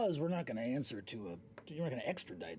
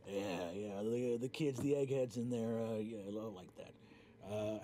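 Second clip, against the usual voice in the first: Orm's voice; 3 semitones lower than usual. Acted. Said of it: "looks up at you and says".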